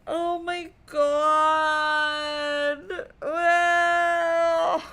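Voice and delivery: real loud crying wail. Real, not acted. Streamer wails at the sad scene, loud real crying. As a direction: wail it out, overwhelmed.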